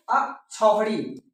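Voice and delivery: slow, syllable by syllable अक्षौहिणी; careful pronunciation. Shown as a demonstration. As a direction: spell out अक्षौहिणी slowly. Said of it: "इसे विशेष ध्यान देंगे".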